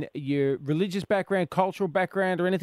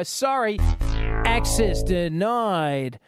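slow stern refusal; 4 dB louder, much slower than usual. Retold or imitated. Acted border official refusing entry.

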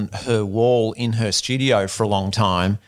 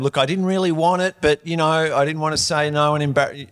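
higher-pitched mock confession; excuse to wife; 4 semitones higher than usual. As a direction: plead your case like an awkward husband. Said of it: "That conversation with your wife when you go home".

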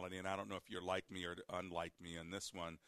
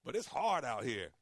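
high-pitched imitation of a woman pleading; pleading lady listener; 9 semitones higher than usual. Host imitating a lady requesting a singles show, high pleading voice. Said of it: "And the lady said".

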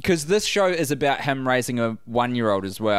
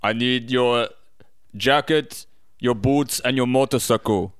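a hint of Arnie's robot voice; deadpan Terminator-style delivery; Arnold Schwarzenegger impression. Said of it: "to the Arnie voice".

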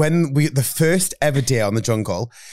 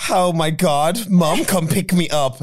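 put-on whiny kid voice; 3 semitones higher, slower than usual. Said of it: "that kind of vibe".

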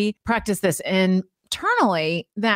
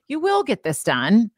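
mildly encouraging self-talk; changed positive tone. Acted. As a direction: reassure yourself with gentle conviction. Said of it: "let's change the tone of voice".

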